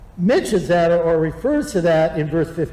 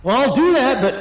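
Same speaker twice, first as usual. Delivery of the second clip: grudging mutterer; 5 semitones higher, 3 dB louder than usual. Retold or imitated. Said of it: "So it's kinda like".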